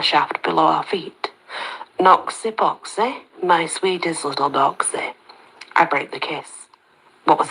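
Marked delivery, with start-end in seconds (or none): 2.0-5.1 lightly nasal sing-song tease. Acted. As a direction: croon it through the nose, playful. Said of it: "The nasal voice sounds again".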